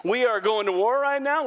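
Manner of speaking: playfully combative challenge; mock fighting words. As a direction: puff up like you're ready to brawl. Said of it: "We'd be angry and defensive".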